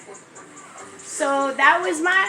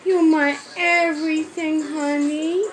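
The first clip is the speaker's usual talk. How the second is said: tender; 4 dB quieter than usual. Real, not acted. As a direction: soothe him gently with love. Tender words to crying baby.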